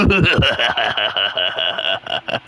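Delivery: low cartoon villain cackle; evil villain laugh. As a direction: cackle like a Scooby-Doo villain. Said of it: "the evil Scooby-Doo villain laugh".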